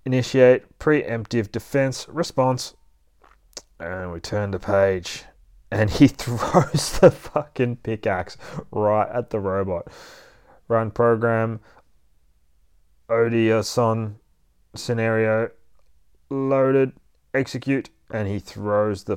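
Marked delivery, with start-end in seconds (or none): 0.0-2.8 lightly voiced robot combat computer; a hint of a robot voice; robot readout. 10.7-17.9 lightly voiced program readout; a hint of a robot voice. Robot runs its combat program.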